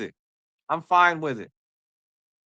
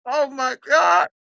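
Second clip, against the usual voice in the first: mock bawling; 9 semitones higher, slower than usual. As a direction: overdo the crying rookie, pitched way up. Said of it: "he's bawling".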